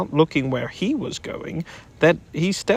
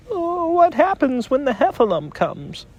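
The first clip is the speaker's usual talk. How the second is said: a hint of trembling; 11 semitones higher than usual. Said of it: "asked Piglet tremblingly".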